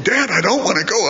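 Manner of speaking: mock-panicked kid pleading to back out; high-pitched imitation of a scared son; retold panic. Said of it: "the more panicked he became".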